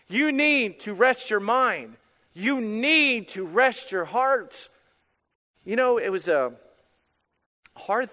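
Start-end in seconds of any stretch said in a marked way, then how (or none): 0.1-4.7 slow earnest plea. Acted. God's voice quoted in sermon.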